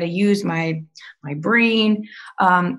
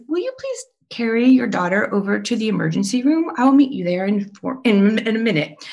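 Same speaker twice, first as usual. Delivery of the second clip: steady, calm request from the doctor; 3 semitones higher than usual. Retold or imitated. Doctor calmly sending mother to the emergency room, steady and even. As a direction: keep it measured and even, hiding alarm. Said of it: "looks at me calmly, says".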